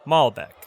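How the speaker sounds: Malbec said MAHL-beck; model pronunciation. Shown as a demonstration. Teacher models a wine name, clear pronunciation. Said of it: "That's how you pronounce".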